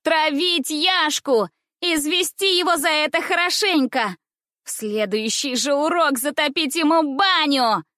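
high, slow shouted demand; rally the class, high and loud; shouting girls. Acted. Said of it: "кричали в одном углу".

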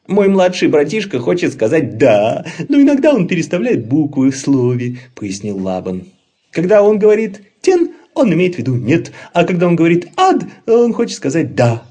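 high, loud glib explaining; smooth-talking troll. Acted. Laban fooling the bunnies, high loud glib voice. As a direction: talk fast to cover the lie.

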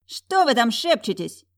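angry sister barks at the whisperers; barking snap. Acted. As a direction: snap at them across the room. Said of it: "рявкнула Сафира".

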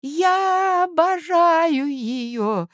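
put-on high, very slow mumble of an old man; high slow old man's mumble; mumbled. A narrator's reading. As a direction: murmur it trembling like an aspen leaf. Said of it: "пробормотал князь".

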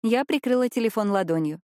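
ordinary delivery, nothing marked

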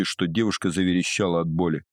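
plain reading voice

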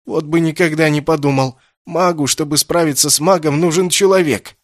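loud, high, mocking voice; mocking laughter. Kessin, still shaking with laughter, mocking. Captive laughing mockery continues.

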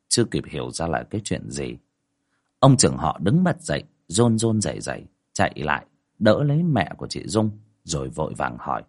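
measured storytelling voice over music; story narration. A narrator's reading. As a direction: tell the ghost tale steadily. Narration between quotes.

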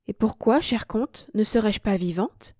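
calm, tranquil. Acted. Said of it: "lui dis-je l'air le plus tranquille".

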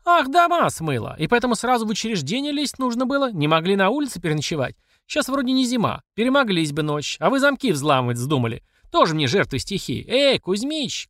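mock the flood victims; scolding official. Platsekina sneers at the flooded family, high and sarcastic.

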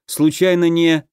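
фраза обрывается, перебили; замолкнуть посреди фразы; оборван на полуслове. Acted. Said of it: "перебил пацана на полуслове". (оборван на полуслове)

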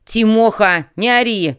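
sharp shout. A narrator's reading. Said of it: "позволял себе повышать голос".

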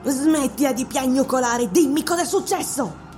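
loud, furious scolding witch; angry witch. Acted. Witch furiously telling the wailing priest to stop, loud. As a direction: bark her orders at the whining priest.

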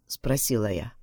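usual speaking voice

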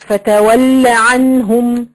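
فتول recited with the final aa held too long; slow chanted فتول عنهم, madd exaggerated; over-lengthened madd. Shown as a demonstration. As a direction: overstretch the vowel ending فتول, very slowly. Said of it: "قد يزيد عن حركتين".

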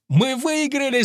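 high, jubilant cry of victory; shouting that they won; triumphant shout. Acted. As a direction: yell it out as the winner. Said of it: "закричал я".

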